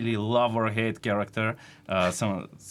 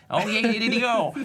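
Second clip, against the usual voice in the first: excited; 14 semitones higher, 5 dB louder than usual. Retold or imitated.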